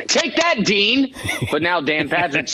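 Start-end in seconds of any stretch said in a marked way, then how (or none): 0.1-1.1 mock triumph. Triumphant retort to remembered dean.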